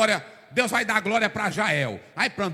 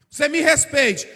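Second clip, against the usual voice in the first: angry professor; 6 semitones higher, 8 dB louder than usual. Retold or imitated. Professor snaps at student.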